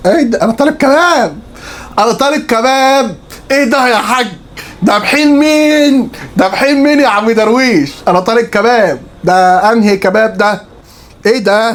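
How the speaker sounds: high, indignant disbelief; shocked outrage. Real, not acted. Food vlogger shocked at kebab from Darwish, high indignant protest.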